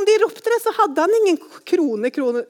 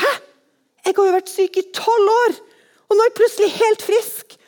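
astonished, higher and louder; bright disbelief, building up; amazed; 8 semitones higher, 5 dB louder than usual. Acted. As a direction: gasp at being healed. Woman amazed at sudden healing.

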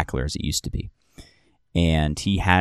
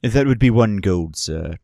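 formal bartender; 3 semitones higher than usual. Acted. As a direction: let the cost land politely. Bartender states price.

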